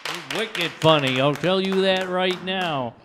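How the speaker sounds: loud, slow emcee praise; loud hyped praise. Real, not acted. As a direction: pump up the crowd. Host praising loudly.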